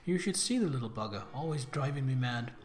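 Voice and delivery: reading Lucy's chatty letter in a light Brummie lilt; lightly voiced letter from a sister. Sister Lucy writing to Pippa in London, lightly voiced. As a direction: voice the sister gossiping from home, loosely.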